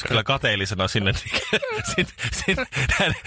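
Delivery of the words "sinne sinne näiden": laughing through the words; rueful laugh at his own jealousy; giggling while describing the beautiful couple. Real, not acted. Laughing at own envy story.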